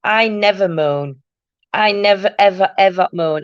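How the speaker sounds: playful protest, hitting each "never"; mock-indignant denial. Real, not acted. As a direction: stress on NEVER in "I never moan", slowed down. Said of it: "I always moan".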